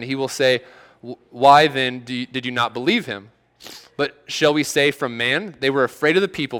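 measured Bible reading, unhurried; reading Mark aloud from the pulpit; scripture reading. Acted. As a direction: read the passage out to the congregation. Reads scripture passage aloud.

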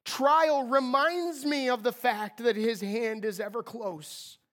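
usual speaking voice

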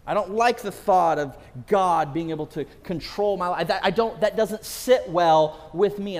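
lightly voiced indignant objector; mock protest. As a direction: play the reluctant listener, a touch indignant. Voicing people's objection to God.

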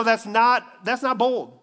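ordinary talk, nothing marked

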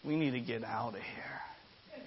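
hushed frightened whisper; scared whisper. Retold or imitated. Wife whispers to husband in the pew, frightened. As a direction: whisper it urgently to her husband. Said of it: "she started to get white, get pale".

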